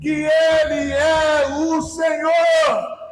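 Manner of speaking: proclamation building to a drawn-out shout; climactic preaching. Real, not acted. Preacher proclaiming every tongue will confess, climactic preaching. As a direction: build steadily to a ringing declaration.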